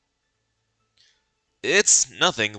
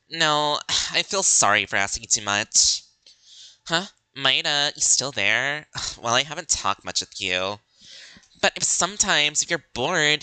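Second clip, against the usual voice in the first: put-on higher, brash spoiled-girl voice; pushy girl character; 5 semitones higher than usual. Spoiled girl pestering Maeda to lend money, brash. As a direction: demand the money like a spoiled brat.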